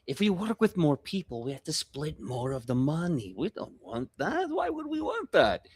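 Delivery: high, wheedling goblin pitch voice; scheming goblin NPC. Acted. Goblin pushes the player to ditch the company, wheedling.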